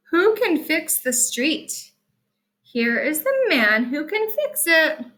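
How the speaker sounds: storybook read-aloud; reading to children. Acted. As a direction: read it brightly for little listeners.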